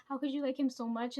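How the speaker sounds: imitating her friend shouting at her; retold yelling. Friend berating her about liking him, mock shouting. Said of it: "she's yelling at me the whole time".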